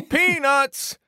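laughing, slow vendor call; peanut vendor calling. Acted. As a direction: hawk peanuts, breaking into laughs. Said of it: "you're on the clock".

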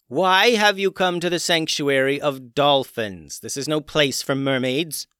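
loud, high royal challenge; queen yells at intruders; yelling. Acted. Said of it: "yelled the queen dolphin".

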